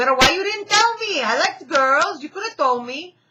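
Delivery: put-on heavy Spanish accent, very high and very loud. Retelling what a woman said to the speaker: imitating thick Spanish accent. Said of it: "she speaks with a very thick Spanish accent".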